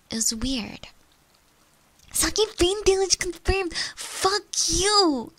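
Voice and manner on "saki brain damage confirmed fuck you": loud, high indignant outburst; squawked mock-offended retort; playful outrage. Real, not acted. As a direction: shout back at a teasing chat, amused. Indignant reply to teasing chat.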